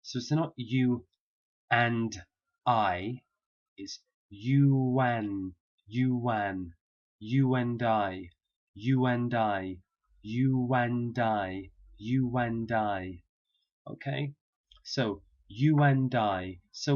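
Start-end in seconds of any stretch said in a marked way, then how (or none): 3.8-5.5 it's "you and" linked with a w glide, slowly; linking W. Shown as a demonstration. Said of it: "intrusive W sound". 7.2-13.2 "you and I" slowly with a w glide after "you"; linking W. Shown as a demonstration. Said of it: "intrusive W sound".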